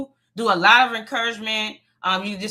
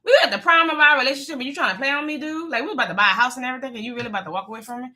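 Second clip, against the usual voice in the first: retold hurt outburst; 3 semitones higher, much faster than usual. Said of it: "And I'm like".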